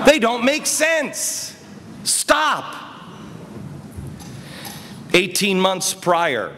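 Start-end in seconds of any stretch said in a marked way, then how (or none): 0.1-2.7 higher, half-laughing shout of frustration; exasperated retold shout. Arguing with critics about loans, exasperated laughing shout. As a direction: throw it back at them, laughing in disbelief.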